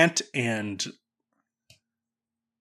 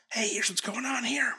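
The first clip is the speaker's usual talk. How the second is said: hushed, unvoiced aside; playful whisper; 10 semitones higher, 8 dB quieter than usual. Host introducing the show's premise in a playful whisper. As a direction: whisper it like a confidential tip. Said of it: "little whisper of".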